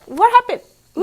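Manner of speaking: sudden high, loud "what happened"; surprised. Acted. Reading to a child, surprised by the button. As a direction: gasp out the question.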